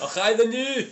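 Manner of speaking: put-on a weak, half-hearted Scottish accent; bad Scottish accent. Trying a Scottish accent for his mates, half-hearted Scottish. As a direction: mumble a cod Scottish phrase. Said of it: "can you do a Scottish accent for us".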